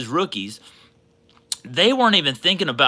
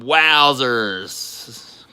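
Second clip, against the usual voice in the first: "wowzers" breathed out in a whisper; 2 semitones lower than usual. Real, not acted. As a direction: hush it like a secret, awed. Whispers wowzers after saying it.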